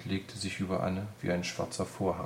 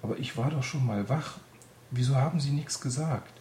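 higher, louder accusing question; angry reproach; 6 semitones higher, 3 dB louder than usual. A narrator's reading. Anne angrily confronting Greta, higher and louder. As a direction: demand why she was not told. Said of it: "Anne war wütend".

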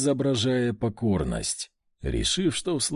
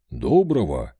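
low clipped reply, louder; chief's curt greeting; 8 semitones lower, 4 dB louder than usual. Acted. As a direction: answer briefly, low and firm.

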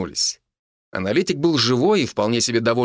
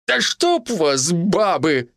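slow exasperated curse; cursing; 6 semitones higher, much slower than usual. A narrator's reading. Peasant cursing the meddling women, exasperated. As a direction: swear at the women, fed up. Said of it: "выругался мужик".

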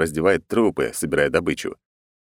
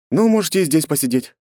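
good-natured, in a markedly higher voice; good-natured agreement; 9 semitones higher than usual. Acted. Captain letting his crew stay, good-natured. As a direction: agree easily, pitched well up. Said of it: "добродушно согласился с ними".

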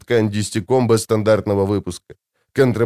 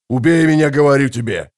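frenzied howl. A narrator's reading. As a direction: hurl it out in a frenzy. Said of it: "взвыл Гурни в неистовстве".

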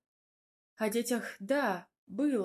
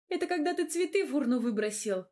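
higher, louder playful jab; teasing; 6 semitones higher, 4 dB louder, faster than usual. A narrator's reading. She teases Radim about the flowers in the bin. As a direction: poke fun at him.

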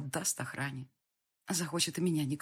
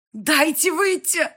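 desperate cry; 12 semitones higher, 11 dB louder, slower than usual. A narrator's reading. Trapped mother demands.

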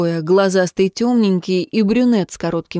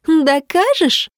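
open contempt; 9 semitones higher, slower than usual. Acted. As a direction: throw the word back with disdain. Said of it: "оглядела её с презрением".

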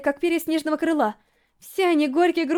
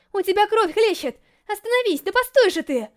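higher, urgent calls to stop; alarmed pleading; 5 semitones higher than usual. A narrator's reading. Racer begging her bleeding rival to stop, alarmed. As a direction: plead urgently while giving chase.

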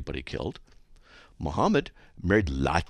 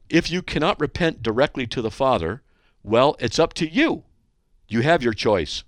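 louder, higher read-aloud voice; hate mail read-out; 4 semitones higher, 4 dB louder than usual. Acted. Host reads a listener's hate mail aloud, emphatic.

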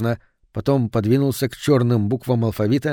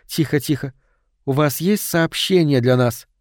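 calm soothing; 2 semitones higher than usual. Acted. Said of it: "спокойно объяснила Соланж".

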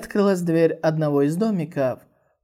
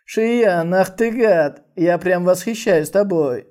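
louder, teasing mock admiration; sly mocking; 2 semitones higher, 5 dB louder, slower than usual. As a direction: tease him with a snide grin. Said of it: "ехидно засмеялся и сказал".

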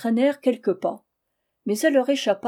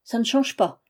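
put-on louder, higher plaintive old lady voice; complaining old woman; 5 semitones higher, 7 dB louder than usual. Old servant complains to her master, loud and plaintive. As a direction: lay the misery on thick, rising into a loud lament. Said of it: "Elle répondit".

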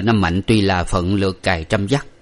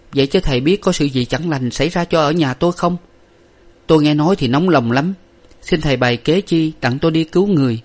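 a hint of a worried wife; 7 semitones higher than usual. A narrator's reading. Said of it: "sảng sốt tiếp đáp lời rằng".

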